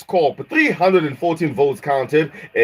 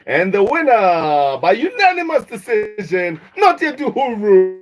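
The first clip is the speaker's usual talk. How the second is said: dramatic reveal; 5 semitones higher than usual. Acted.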